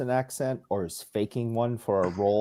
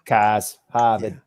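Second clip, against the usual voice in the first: Cars, Harvard with dropped Boston r; Boston accent; 4 dB louder, much slower than usual. Shown as a demonstration. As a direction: drop the r like a Bostonian. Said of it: "that's how we all talk".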